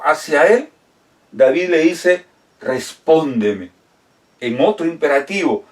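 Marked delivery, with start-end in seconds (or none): 2.6-3.7 lower, slow, humble plea; a slow supplicating respóndeme; pleading tone. Retold or imitated. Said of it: "pero con ese tono de súplica".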